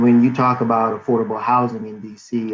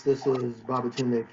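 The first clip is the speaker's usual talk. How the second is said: muffled; 7 dB quieter than usual. Real, not acted. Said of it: "sorry, I was a little muffled".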